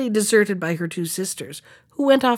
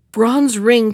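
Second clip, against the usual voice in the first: commanding; 6 dB louder than usual. Acted. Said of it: "commanded the young man".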